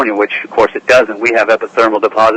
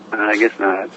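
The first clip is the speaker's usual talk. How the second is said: Slim's voice; 7 dB quieter than usual. Pretend. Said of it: "I wonder if Slim could".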